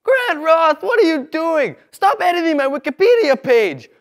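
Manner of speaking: high, loud yelling at the class; teacher impression. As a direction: shout them back into their seats.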